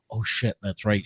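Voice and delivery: low, soft inward oh-no; quiet realization. Retold or imitated. Dad on stage remembering his daughter's there, quiet realization. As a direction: mutter it to yourself as it dawns.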